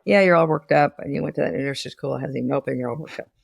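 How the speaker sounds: low, fast affectless echo; a husband flatly repeating his wife's complaint; flat repetition. Retold or imitated. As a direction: parrot her words back with no feeling. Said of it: "it's more like this".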